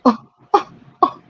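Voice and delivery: high-pitched mock laugh; put-on staccato laughter; imitated laughing. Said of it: "he's like, and he's laughing".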